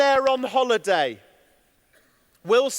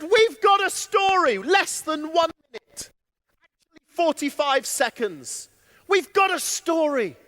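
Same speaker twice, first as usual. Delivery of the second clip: put-on excited kids; 4 semitones higher than usual. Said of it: "So these kids".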